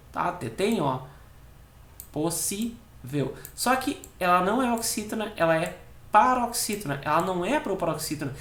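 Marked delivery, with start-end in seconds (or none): 2.1-3.3 "Possível" slow and soft, syllables separated. Shown as a demonstration. Teacher counting syllables for students, "Possível" divided slowly. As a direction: break "Possível" into its syllables, unhurried. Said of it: "fazer a divisão silábica da palavra".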